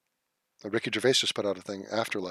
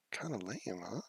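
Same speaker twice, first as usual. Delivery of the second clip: mock lame reread; 3 semitones lower, 14 dB quieter than usual. Shown as a demonstration. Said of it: "How was that?".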